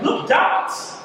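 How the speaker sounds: high-pitched mock excited pointing-out; mock excitement. Someone spotting a forgotten shirt, mock excitement. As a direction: pipe up high, as if thrilled at a find.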